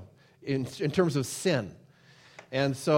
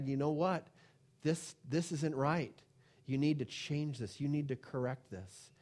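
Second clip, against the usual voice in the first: gentle correction; 6 dB quieter than usual. Retold or imitated. Voicing a correction to the church.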